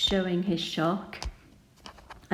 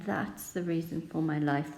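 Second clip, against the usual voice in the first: softer, sad reading of "That's the reason for my life"; 4 dB quieter than usual. Shown as a demonstration. Teacher modelling the pig's last line for pupils, in a sad tone. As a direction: let it drop into quiet sadness. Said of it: "quite a sad tone there".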